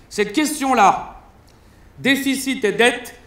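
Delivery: slow, grave Prime Minister pronouncement; solemn quote. Retold or imitated. Stand-up mocking the PM's slow solemn speech. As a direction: weigh each word like a statesman.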